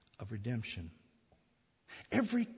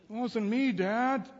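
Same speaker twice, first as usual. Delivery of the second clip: put-on high child's protest; 11 semitones higher, 7 dB louder, slower than usual. Son denies throwing spaghetti.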